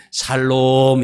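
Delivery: 샬롬 called out loud and bright; loud shalom greeting. Shown as a demonstration. Pastor shows the congregation how to greet, loud 샬롬. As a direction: greet your neighbor with 샬롬, loudly. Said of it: "이렇게".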